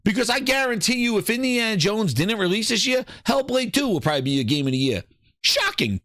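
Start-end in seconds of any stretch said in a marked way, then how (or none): 5.4-6.0 sarcastic shout. Real, not acted. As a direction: yell "Shocking" sarcastically. Sarcastic reaction repeated, shouted.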